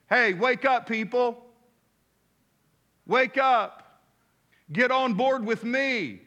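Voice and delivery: booming divine wake-up call. Acted. God calling people to wake up.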